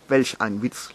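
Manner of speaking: short put-on laugh before the words; acted laugh. Adverb and conjunction laugh at a joke, brief acted laugh. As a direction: give a brief mock laugh, then speak. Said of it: "lachen Adverb und Konjunktion".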